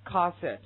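"cassette" drawn out, stress on SETTE; 慢速示范; slow pronunciation demo. Shown as a demonstration. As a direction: model "cassette" slowly. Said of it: "this one".

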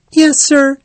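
very high, polite little voice; young hedgehog. Acted. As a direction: answer like a small, eager creature. Young hedgehog answers the Rat.

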